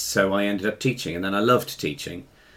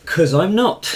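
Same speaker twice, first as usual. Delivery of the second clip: laughing; 14 semitones higher, 7 dB louder, slower than usual. Real, not acted. Laughing at a silly question.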